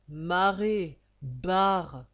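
loud, grumbling rebuke; gruff slangy scolding; scolding growl. Acted. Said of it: "gronda le fils Chopin".

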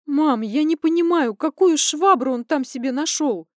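high, loud, furious daughter venting; indignant rant. Acted. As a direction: pour it all out in rising outrage. Daughter ranting about cheating father.

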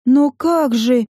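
slow, bewildered question; bewildered stammer. Acted. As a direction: stammer it out, lost. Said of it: "заикнулась растерянно".

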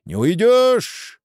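high, drawn-out angry yell; shouting. A narrator's reading. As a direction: cry out after the thieves, stretching the words. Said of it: "Живан и закричал". (крик вдогонку ворам)

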